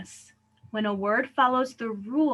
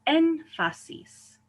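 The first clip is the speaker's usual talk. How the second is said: "énfasis" slowly as EN-fa-sis, high on EN; third-to-last stress; 7 semitones higher, much slower than usual. Shown as a demonstration. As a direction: stretch and lift the start of "énfasis". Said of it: "These emphasize the third to last syllable".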